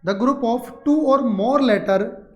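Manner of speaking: the phrase joined up, slow and deliberate; slow read-back. Shown as a demonstration. Teacher repeats the definition for students, slow connected reading. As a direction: read it back slowly in one connected run.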